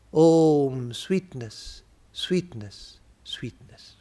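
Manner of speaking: measured blessing, phrase by phrase; prayer recitation. Acted. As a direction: recite it as a solemn prayer, pausing after each wish. Recites translation of the closing prayer.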